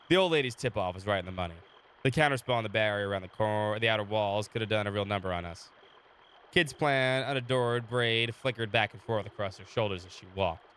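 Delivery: steady storyteller read of the game text; story narration. Acted. Streamer reading the game story to chat, calm narration. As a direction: narrate the scene for the viewers.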